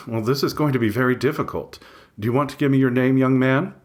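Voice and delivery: lightly voiced kindly receptionist; sweet receptionist. A narrator's reading. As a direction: coax the young man sweetly. Receptionist coaxes his name.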